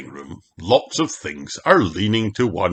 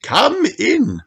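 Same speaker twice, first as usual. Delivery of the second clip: Madame Gazelle. A narrator's reading. Madame Gazelle welcomes the family at her door, graciously. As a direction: greet them graciously.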